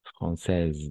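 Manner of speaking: française ending on a z sound, final e silent; correct pronunciation. Shown as a demonstration. Teacher showing the silent final E, careful pronunciation. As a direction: say française carefully, no vowel after the z. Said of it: "on ne prononce pas".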